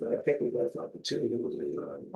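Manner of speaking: quick, mumbled and unclear; mumbling. Real, not acted. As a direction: swallow the words in a mumble. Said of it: "you're just mumbling".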